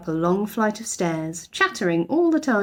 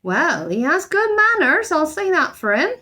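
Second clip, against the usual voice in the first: grudging housekeeper; 9 semitones higher, 4 dB louder than usual. A narrator's reading. Mrs Bird grudgingly approving.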